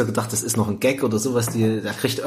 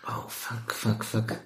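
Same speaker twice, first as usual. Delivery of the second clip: muttered curses; 4 semitones lower, 10 dB quieter, much slower than usual. Retold or imitated. Character panicking at bad news.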